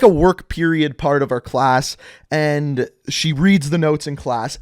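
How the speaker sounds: normal talking voice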